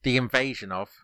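measured chunks, left hanging for confirmation; three words at a time. Shown as a demonstration. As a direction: read it out in threes, pausing after each. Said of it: "I'll do it three words at a time".

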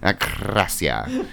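slow sing-song "Acracia" with rising end; drawn-out pronunciation. Pretend. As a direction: stretch out "Acracia" playfully. Drawn-out far voice.

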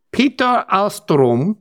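slow, lilting mock Norwegian; Norwegian accent. Host reading patron names, can't stop the put-on Norwegian accent. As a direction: stretch each name with a Norwegian lilt. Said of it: "I can't stop. I can't stop myself doing that".

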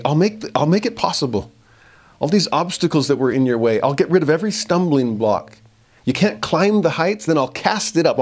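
an eager, lifted divine promise; pleading God. Acted. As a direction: plead like a loving God calling back a straying people. Voicing God's pleading promise.

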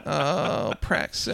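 quiet, drawn-out parody voice; mock podcast host, barely voiced; Red Scare podcast host. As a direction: stretch it out in a faint put-on voice. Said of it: "this is now Red Scare".

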